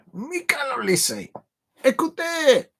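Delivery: high, drawn-out French flourish; French accent. Pretend. Football fan announcing his scorer in French, playful French accent. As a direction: call it out with a showy French accent.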